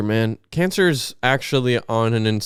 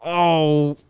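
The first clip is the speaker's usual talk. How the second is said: raised-pitch presidential impression, halting at first; hammed-up politician lamenting his illness, landing on CHINA; Trump; 5 semitones higher than usual. Improvising a cancer scenario for co-host, politician impression. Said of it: "I've been doing my Trump impression".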